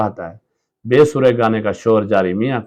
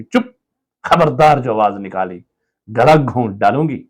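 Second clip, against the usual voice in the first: angry threat. Acted. Wife threatens child.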